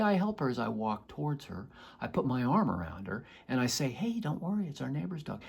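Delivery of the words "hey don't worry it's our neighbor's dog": calm reassurance. Retold or imitated. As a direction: reassure her with an arm around her. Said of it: "She can feel my authentic calmness".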